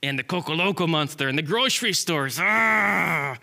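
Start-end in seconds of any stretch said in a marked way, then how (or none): 2.4-3.4 acted yell of anger; angry growling cry. Squirrel mad at everyone and the stores, angry cry. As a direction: let out a mad "ah". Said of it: "started getting mad".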